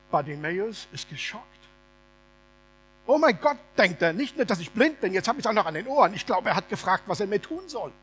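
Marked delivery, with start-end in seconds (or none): 3.1-7.9 shocked. Acted. Beggar's shocked inner voice.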